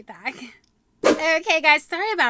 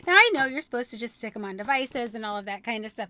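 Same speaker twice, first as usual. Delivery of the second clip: ordinary talk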